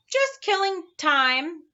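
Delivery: slow, sheepish reply; apologetic. Acted. Milo apologizing to the watchdog, slow and sheepish. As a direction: say it sorry, a bit embarrassed. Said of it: "replied Milo apologetically".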